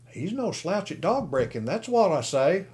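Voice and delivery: high, eager shout of approval; enthusiastic cry. A narrator's reading. Onlooker on the wall cheers the dog breaking, enthusiastic. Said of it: "cried enthusiastically".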